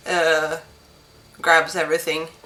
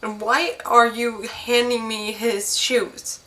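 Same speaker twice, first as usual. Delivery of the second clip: distraught; 6 semitones higher than usual. Acted. Distraught widow questions messenger.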